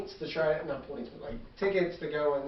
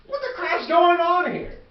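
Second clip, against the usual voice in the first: high shrieking yell; 11 semitones higher, 10 dB louder than usual. Acted. Creature shrieks.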